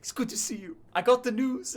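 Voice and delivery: put-on high, bright-eyed boyish king voice; young king. Young king Balyor greets the friends he looks up to, high and eager.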